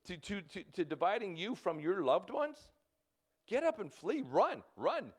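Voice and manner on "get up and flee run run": rising urgency, get up and go; urgent command. Shown as a demonstration. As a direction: push it out like a warning. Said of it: "repeated exhortation, raised".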